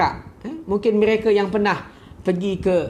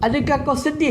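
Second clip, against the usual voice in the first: gentle question; 5 semitones higher than usual. Retold or imitated. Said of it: "Nabi pun tanya".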